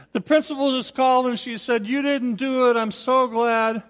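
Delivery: mildly hammed-up excited mother; a touch of motherly relief; imitating thrilled mom. Mother joyfully retells the call.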